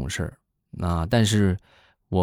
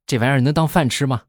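scornful parent; 6 semitones higher, 3 dB louder than usual. Retold or imitated. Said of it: "你父母一般都会怎么说？".

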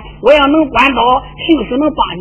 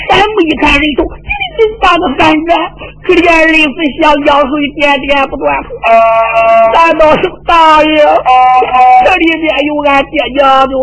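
crying lament; 3 semitones higher, 3 dB louder than usual. Acted. The girls weep on seeing their family's heads. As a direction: voice breaking into a tearful wail.

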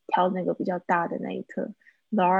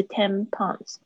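tampons with both TAM and PONS stressed; double stress. Retold or imitated. Teacher showing student what to avoid, double-stressed. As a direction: mimic the learner's two-beat tampons. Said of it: "好像有两个重音， 不是tampons".

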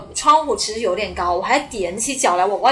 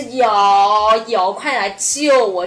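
louder, slow plea for rescue; desperate shout; 5 dB louder, much slower than usual. Retold or imitated. Trapped woman answering the policeman with a loud slow plea. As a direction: cry out to be saved.

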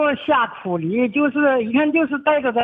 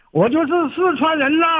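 Sichuan dialect; 4 semitones higher than usual. Shown as a demonstration. Caller teaching the host a line, in Sichuan dialect. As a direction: show off the Sichuan dialect, stretching the ending. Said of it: "四川话要按程度，他是这么说".

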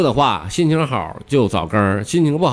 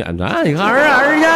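Jinzhou dialect, a higher rising lilt; lightly rising Jinzhou accent; 13 semitones higher, 4 dB louder than usual. Retold or imitated. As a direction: lift the tail like a Jinzhou local. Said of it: "往上挑的".

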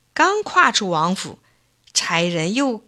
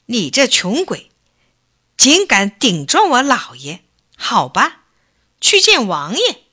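loud, higher scolding of a poor man; angry scolding; 4 semitones higher, 4 dB louder than usual. Acted. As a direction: berate him like a bullying landlord. Rich man drags old man off.

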